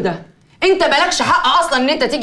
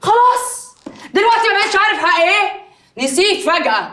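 high-pitched, indignant challenge; indignant retort; 5 semitones higher than usual. Acted. Wife challenging him over her rights, indignant high retort. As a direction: throw it back at him, voice raised in pitch. Wife taunts husband in quarrel.

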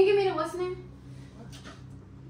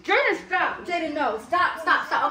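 protesting shout; 3 semitones higher, slower than usual. Real, not acted. Being hit by brother.

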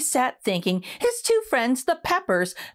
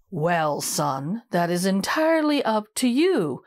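grinning elder; 5 semitones lower than usual. Acted. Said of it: "grinned the broccoli".

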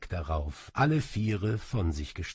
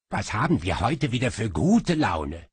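louder, spiteful retort; venomous; 5 dB louder than usual. Acted. Little demon answers his master venomously. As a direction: sneer back at him. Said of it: "erwiderte der Folio giftig".

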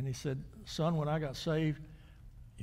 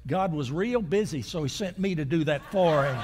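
triumphant retort; 7 dB louder than usual. Retold or imitated. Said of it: "and said".

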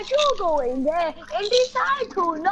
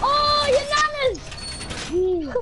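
excited squeal; 10 semitones higher, faster than usual. Real, not acted.

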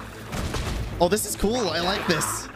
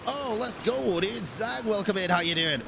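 excited cheer; 6 semitones higher, 3 dB quieter than usual. Real, not acted. Excited cheer, greeting viewer.

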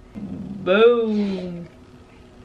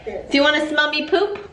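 laughing; 6 semitones higher than usual. Acted. Silly joke while laughing.

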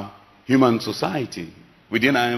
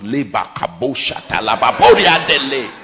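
mock tongues; 4 dB louder than usual. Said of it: "now speak in tongues".

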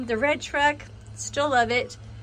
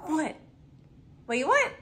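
pet talk; 5 semitones higher than usual. Real, not acted. Asking the dog what she wants.

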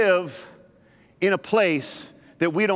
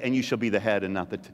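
mock wrong reading; 9 semitones lower, 5 dB quieter, faster than usual. Shown as a demonstration. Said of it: "it doesn't say".

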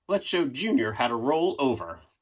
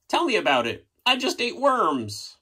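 dog voice; 11 semitones higher than usual. Acted. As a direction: play a tired parent dog. Dog replying to narrator.

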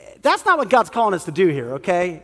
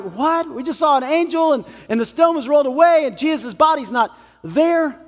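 higher, breathless disbelief; astonished women; 6 semitones higher than usual. Retold or imitated. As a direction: blurt it out in shock. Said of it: "the women are like".

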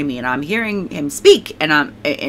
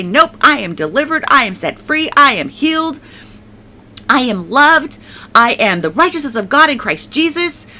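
higher, emphatic declarations, one by one; decreeing; 4 semitones higher than usual. Retold or imitated. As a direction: retell a bold decree over your own life. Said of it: "I was decreeing".

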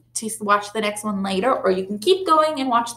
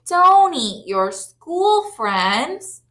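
scolding; 6 semitones higher, much slower than usual. Acted.

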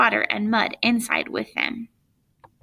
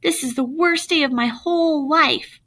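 despairing; 5 semitones higher than usual. Acted. Jeff despairing aloud.

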